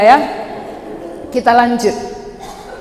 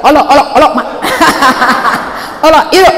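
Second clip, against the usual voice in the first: Toba Batak accent; 2 semitones higher, much faster than usual. Shown as a demonstration. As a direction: snap out "olo" Batak style. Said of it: "molo bahasa Batak".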